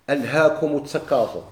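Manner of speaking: Quranic verse set apart with care; measured, reverent verse quote; quoting scripture. Shown as a demonstration. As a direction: lift the verse out like a quotation from the Quran. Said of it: "أما قوله تعالى".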